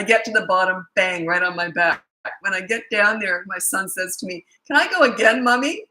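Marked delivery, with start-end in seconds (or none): 4.7-5.8 put-on eager child. Mother voices son after the slide.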